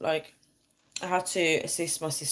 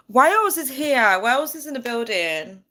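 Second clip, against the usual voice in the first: hype announcement; 6 semitones higher, 4 dB louder than usual. Real, not acted. Greeting Welsh viewers hype.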